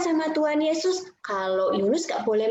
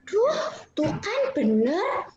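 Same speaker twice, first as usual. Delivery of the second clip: high-pitched, sulky complaint; annoyed grumbling; 6 semitones higher than usual. Acted. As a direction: play a cross prophet whining at God. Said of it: "Yunusnya marah". (menggerutu kesal)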